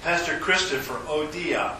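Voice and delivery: ordinary talk, nothing marked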